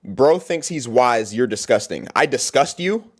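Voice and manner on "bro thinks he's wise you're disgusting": low, slow sneering read; mocking a hater comment again. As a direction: spell it out slowly to mock it.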